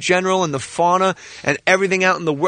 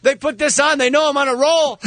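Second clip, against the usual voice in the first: excited; 8 semitones higher than usual. Retold or imitated. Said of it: "I'm like".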